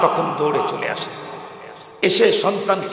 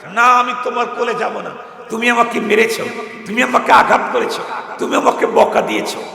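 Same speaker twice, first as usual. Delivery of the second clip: put-on sulking child; 7 semitones higher, 5 dB louder than usual. Hurt child refusing mother.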